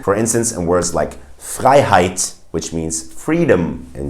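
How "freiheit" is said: FREIHEIT as "fry-hite", in German; both vowels of FREIHEIT like English I; EI said as "eye". Shown as a demonstration. Teacher gives an example word, EI as "eye". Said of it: "it's pronounced I in German".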